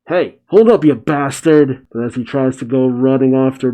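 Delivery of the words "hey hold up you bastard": calling out. Acted. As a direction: yell after someone who's leaving. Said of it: "Boruto calls out".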